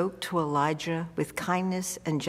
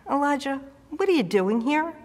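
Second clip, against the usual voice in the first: raised, calling out to a hiding man; God's summoning voice, raised pitch; 6 semitones higher, faster than usual. Acted. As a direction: call his name from above, then ask. God calls Elijah in cave.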